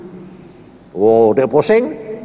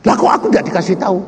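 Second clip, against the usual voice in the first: indignant; 5 semitones higher, much faster than usual. Retold or imitated. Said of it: "Mau marah dia".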